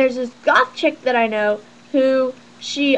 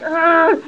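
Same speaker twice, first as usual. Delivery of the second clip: imitated brooding "ugh"; put-on groan; brooding grunt; 3 semitones higher than usual. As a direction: grunt like a moody goth. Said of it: "he's just like".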